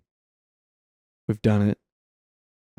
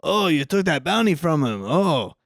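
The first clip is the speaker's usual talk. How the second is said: higher-pitched imitation of a mocking outlaw; Tuco taunting the sheriff; 5 semitones higher than usual. Speaker imitating Tuco telling the sheriff off, mock taunting. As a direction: lightly play a jeering bandit with swooping pitch. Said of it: "Tuco telling the sheriff".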